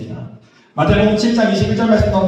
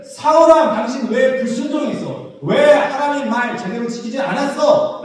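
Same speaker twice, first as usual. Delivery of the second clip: raised, mildly reproachful questioning; Samuel questioning; 5 semitones higher than usual. Acted. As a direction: call him out, then press him for an answer. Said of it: "사무엘이 물어보는데". (사무엘이 사울을 추궁하듯 높여 묻는 말투)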